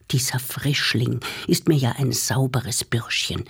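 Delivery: soft, scornful whisper; contemptuous. Acted. Grandfather sneers about the bell ringer, contemptuous. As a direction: spit the words with disdain. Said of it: "spuckte verächtlich aus".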